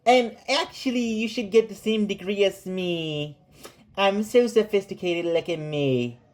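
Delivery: lightly mocking impression of a smug PhD; snooty graduate. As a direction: play a self-satisfied academic bragging. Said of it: "I don't know why you sound like that".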